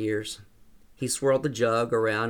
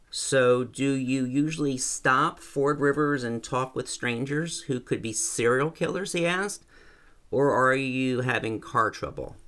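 a hint of a friendly old rancher; old man voice; 3 semitones higher than usual. Old man Jack speaks.

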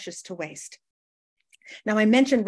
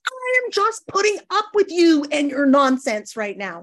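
higher, louder, grudging put-upon tone; mock-superior tolerance; smug tolerance; 5 semitones higher, 5 dB louder than usual. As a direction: sigh it out like you're barely putting up with them. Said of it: "tolerance comes from a place of spiritual hubris".

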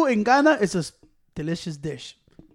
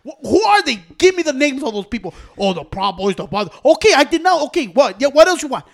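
lightly voiced sarcastic Trump. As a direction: shrug it off, mildly mocking. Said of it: "He was saying it sarcastic".

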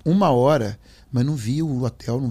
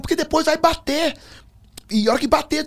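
retold warning. Friend warns in retold scene.

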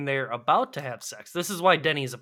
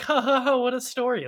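mocking Johnny's laugh; 9 semitones higher than usual. Podcaster mocking Johnny's laugh at the story, high mock cheer. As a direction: sneer it out in a goofy high voice. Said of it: "you're just like".

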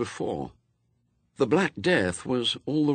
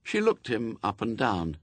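plain reading voice

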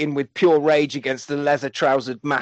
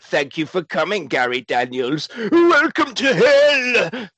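mock villain; 3 semitones higher, slower than usual. Villain welcomes Gary Daniels to the factory, hammed-up. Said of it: "He's like".

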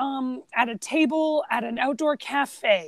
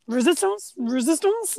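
tentative questioning, each word lifting at the end; mildly lost, retold with rising tune; at a loss; 3 semitones higher, slower than usual. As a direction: try the word out, unsure it will be understood. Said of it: "at a loss".

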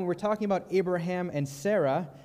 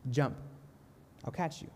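softer, calm and steady; 7 dB quieter than usual. Retold or imitated. Father calls up to his daughter at the window, calm and soft. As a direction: reassure her quietly from below. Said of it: "he looks up to her calmly and says".

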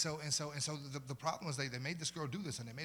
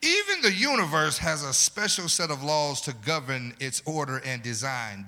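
loud, ringing sermon delivery; preaching at full force; 12 dB louder than usual. Acted. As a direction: proclaim it to the congregation.

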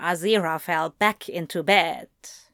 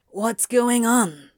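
slow, mildly demanding question; urgent but contained demand. A narrator's reading. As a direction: demand an explanation, without shouting. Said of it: "Crowley demanded".

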